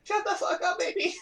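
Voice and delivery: high, loud furious yell at dog; angry shout. Real, not acted. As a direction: bellow it to silence the dog. Yelling at barking dog.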